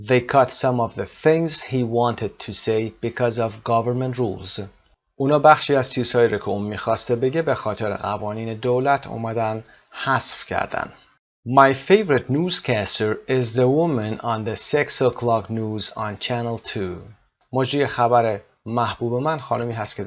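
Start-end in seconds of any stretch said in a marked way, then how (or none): 0.1-4.6 slow, careful reading of an English example; English teacher's careful dictation pace; slow model reading. Shown as a demonstration. Teacher reads model sentence slowly. 11.5-17.0 slow, careful reading of an English example; English teacher's careful dictation pace; slow model reading. Shown as a demonstration. Teacher reads model sentence slowly.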